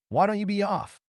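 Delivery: high-pitched, snappish dismissal. A narrator's reading. Cabin owner sends visitor away, snappish. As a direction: snap at him, pitched well up. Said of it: "he snapped, in his short-clipped Eastern accent".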